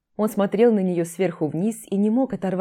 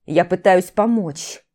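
exasperated shout; 7 dB louder, slower than usual. Acted. Max shouting back at her.

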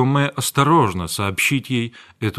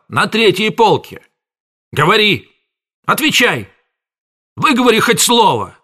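high, loud demanding yell; angry interrogation; 9 semitones higher, 4 dB louder than usual. A narrator's reading. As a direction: badger the boy for an answer. Apothecary interrogating apprentice.

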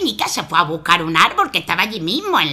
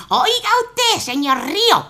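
very fast, higher pleading; mother pleading with the river; rapid rattle; 12 semitones higher than usual. Acted. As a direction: gabble the whole chain.

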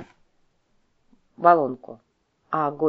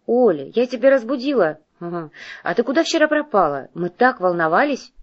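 excited; 5 semitones higher, 4 dB louder than usual. Acted. Friend calling, worried and lively.

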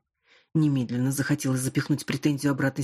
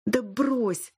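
higher, airy dismissive wave-off; brushing it off; 8 semitones higher than usual. A narrator's reading. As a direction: shrug the question away. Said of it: "отмахнулась она". (небрежно отмахиваясь)

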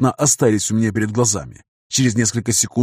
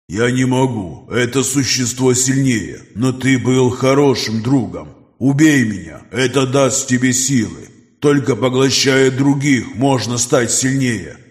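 dying creature voice; slower than usual. Acted. Dying mutant's last words.

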